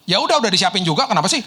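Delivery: retold cross retort, lightly acted; imitating fierce maid. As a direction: snap back like a put-out housekeeper. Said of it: "Dia galak banget gitu loh".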